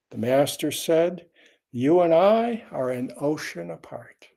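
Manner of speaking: measured, projected reading of a teaching tale; koan story narration. Acted. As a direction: read the old Zen story aloud, phrase by phrase. Reads a koan aloud.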